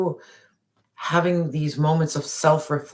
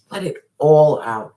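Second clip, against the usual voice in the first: urgent call; 7 dB louder than usual. Acted. Reader urging the viewer again, loud. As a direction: repeat the call, just as loud.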